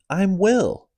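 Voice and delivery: put-on high-pitched baby talk. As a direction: coo at it like a baby. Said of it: "assuming a high-pitched baby talk voice".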